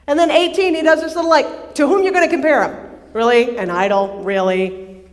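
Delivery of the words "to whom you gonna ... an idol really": mocking, quick incredulous "Really?"; sarcastic. Prophet mocking idol worshippers with sarcasm. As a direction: scoff at the idea of an idol. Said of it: "You can just hear the sarcasm".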